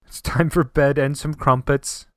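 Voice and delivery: put-on slow, deliberate try at English accent; attempted English accent. Co-host retrying the crumpets line, mock English accent. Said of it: "I have accent".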